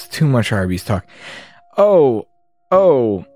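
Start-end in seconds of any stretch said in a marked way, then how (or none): 1.8-3.2 groggy, confused heroine; lightly voiced confused girl; dazed girl voice. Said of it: "Shelf asked".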